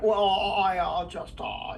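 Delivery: throaty, halting drawl; Jimmy Stewart. Acted. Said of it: "almost do Jimmy Stewart doing that".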